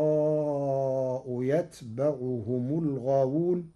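يتبعهم with light sukun ta and fatha ba; Warsh reading. Shown as a demonstration. الشيخ يقرأ يتبعهم بتخفيف التاء. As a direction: recite يتبعهم as yatbaʕuhum. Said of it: "بتخفيف التاء ساكنة وفتح الباء".

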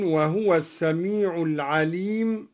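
وهو said wahw, the ha without a vowel; silent ha in wahw. Shown as a demonstration. Teacher demonstrating وهو as wahw to students. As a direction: read وهو as wahw, then السميع العليم. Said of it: "وسكن الهاء من".

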